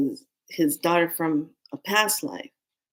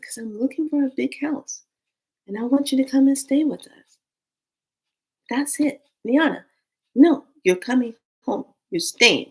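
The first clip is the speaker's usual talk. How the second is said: insistent papa; 7 semitones higher, 4 dB louder than usual. Retold or imitated. Papa insisting she stays.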